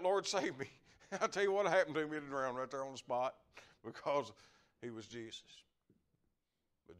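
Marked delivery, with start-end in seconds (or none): 0.0-0.7 cried out. Retold or imitated. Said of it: "if Peter hadn't cried out".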